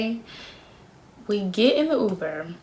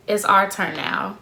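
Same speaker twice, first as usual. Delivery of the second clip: lame imitation of smooth line; slower than usual. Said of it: "the way I just said that was so lame".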